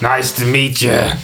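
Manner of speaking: slow talking-cat greeting; Marvin the cat. Pretend. Game master as a cat greeting a player, slow cat voice. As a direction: drawl it like a put-on cartoon cat. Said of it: "He goes".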